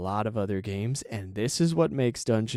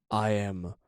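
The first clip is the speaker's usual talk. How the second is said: dwarf character voice; much slower than usual. Retold or imitated. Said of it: "he has a voice he's doing".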